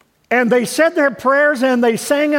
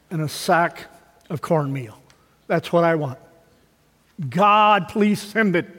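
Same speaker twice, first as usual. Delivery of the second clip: retold pleading prayer; 3 semitones lower, slower than usual. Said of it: "she prayed out loud to God".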